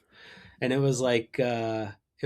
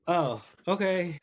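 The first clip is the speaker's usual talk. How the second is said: sheepish retold reply; 6 semitones higher, slower than usual. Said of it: "and I'm like".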